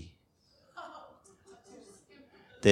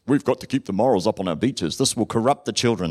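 mock moralist; 2 semitones lower than usual. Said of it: "they said".

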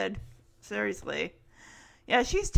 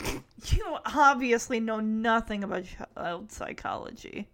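retold scoff; 2 semitones lower than usual. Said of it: "Jesse just scoffs like".

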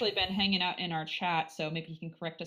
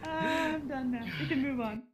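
laughing; 7 semitones higher than usual. Real, not acted. After being called out.

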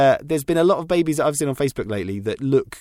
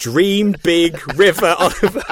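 laughing; 4 semitones higher than usual. Retold or imitated. Laughing at the magazine mistake.

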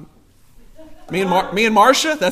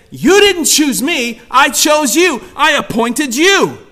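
slow, punched preacher's declaration; emphatic preaching; 5 semitones higher, 4 dB louder, slower than usual. Acted. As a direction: drive each phrase home slowly.

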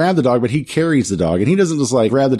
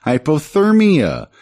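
higher, slow, hammed-up whiny kids; mock kids pleading; 7 semitones higher than usual. Freezing kids apologizing to Skeletor, mock whiny plea. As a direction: drag it out like pitiful freezing children.

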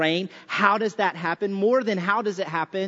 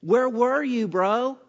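mock-casual jab, higher pitched; sarcastic God; 5 semitones higher than usual. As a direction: needle him like a smug friend. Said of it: "God is using the snow to sarcastically come at Job".

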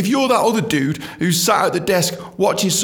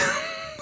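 laugh; 11 dB quieter than usual. Real, not acted. Laughs at own bad accent.

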